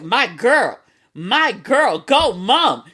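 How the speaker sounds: lightly hyped-up cheer for mom; excited cheering. Retold or imitated. Finding avocado egg rolls on the counter, a light happy cheer. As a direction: cheer her on like a hype girl. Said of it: "and I was like".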